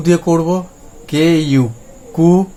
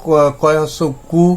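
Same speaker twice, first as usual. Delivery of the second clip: slow spelling out; slower than usual. Shown as a demonstration. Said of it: "তাহলে".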